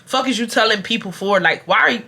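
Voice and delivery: usual speaking voice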